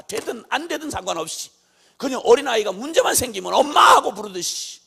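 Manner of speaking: loud, emphatic sermon delivery; full-force preaching. Acted. Preacher urging the flock to kneel before God, forceful preaching. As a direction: drive the point home, punching key words.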